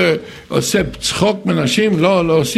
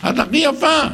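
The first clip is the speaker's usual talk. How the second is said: sincere compliment; 8 semitones higher than usual. Shown as a demonstration. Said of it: "אני אומר בכנות".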